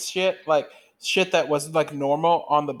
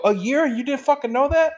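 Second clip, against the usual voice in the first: retold disbelief; 8 semitones higher than usual. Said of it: "And I go".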